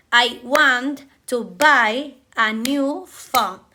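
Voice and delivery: slow sentence leaning on want, buy, new, phone; rhythm demo. Shown as a demonstration. Teacher showing English rhythm to students, slow and stressed. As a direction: tap out the beat on the content words. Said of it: "The important words are want, buy, new, and phone".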